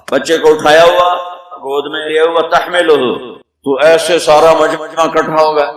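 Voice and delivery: usual speaking voice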